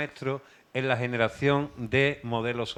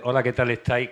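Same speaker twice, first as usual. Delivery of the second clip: announcer delivery, projected and even; radio voice. Shown as a demonstration. Presenter demonstrating her radio voice for the show. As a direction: sound like a radio host greeting listeners. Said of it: "con voz de radio".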